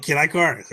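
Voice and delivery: put-on "Kid Icarus" with a long I, EYE-carus; sounding out words. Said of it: "that was always what I called it".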